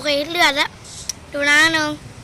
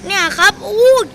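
startled surprise; 5 semitones higher, 4 dB louder than usual. Real, not acted. Shocked at the huge number.

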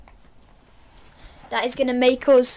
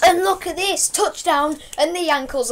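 rising, louder hype call; excited; 5 semitones higher, 4 dB louder than usual. Real, not acted. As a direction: call the touchdown with a grin. Celebrating a touchdown play.

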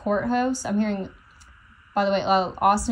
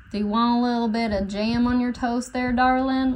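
put-on country accent; 3 semitones higher than usual. Channeler relaying a voice she keeps hearing, country accent. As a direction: imitate someone talking in a country accent. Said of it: "again in this country accent".

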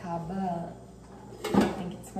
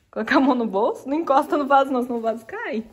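calling out; 4 semitones higher, 10 dB louder, faster than usual. Real, not acted. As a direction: call it across the yard in warning. Calling out to the kids.

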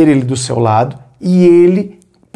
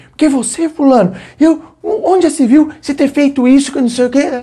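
high, indignant attacking voice; angry accusation; 10 semitones higher than usual. Retold or imitated. Someone storming in to pick a fight, high and indignant. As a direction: come at him pitched up high, ready to fight. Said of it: "Ele, ele veio com tudo".

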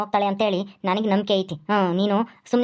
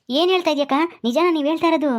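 surprised; 7 semitones higher, faster than usual. Acted. Patel hears Radha agreed.

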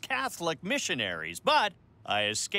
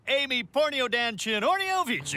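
made-up language, said proudly; fake foreign language; 5 semitones higher than usual. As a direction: recite gibberish as a native tongue. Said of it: "As they say in my country".

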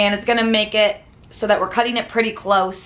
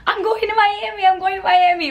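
higher-pitched playful chant of the friend dashing by; imitating excited sprint call; 10 semitones higher than usual. Imitating Rachel calling out while running to the gate, higher and giddy. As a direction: call it out like you're running past the table. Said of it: "Rachel running past the restaurant going".

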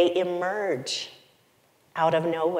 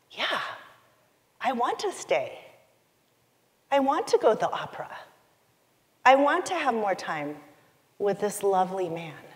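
bursting excitement; 2 semitones higher than usual. Retold or imitated. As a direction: let the yes burst out of you, building. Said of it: "something burst out inside me".

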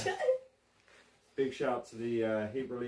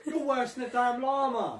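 higher, louder teasing through laughter; laughing; 13 semitones higher, 6 dB louder than usual. Real, not acted. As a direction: laugh while you mock.

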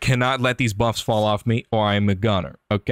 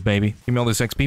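ordinary talk

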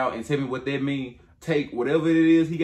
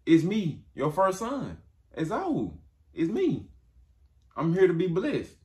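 eager son; 5 semitones higher than usual. Retold or imitated. Esau voiced to his father.

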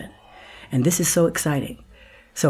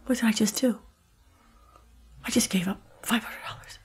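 hushed, fading to near-whisper; stunned realization; 6 semitones higher, 6 dB quieter than usual. Retold or imitated. Actress in a cab realizing what she gave up, stunned hush. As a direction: say it small and stunned, to yourself. Dazed in cab after quitting job.

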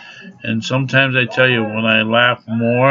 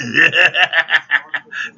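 higher rapid-fire cackle; laughing; 5 semitones higher, 4 dB louder than usual. Real, not acted. Laughing at own smashing noise, high cackle. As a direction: cackle right after the pretend crash.

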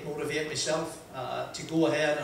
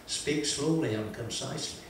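slow and precise; 3 semitones lower, 6 dB quieter than usual. Retold or imitated. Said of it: "Jackie Fullerton always used to say to me".

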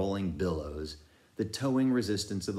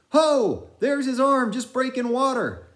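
high, loud, excited sailor calling out; frantic old sailor; 7 dB louder than usual. A narrator's reading. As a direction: shout over the sea, searching for Pip. Narrator voices Manxman's frantic shouts.

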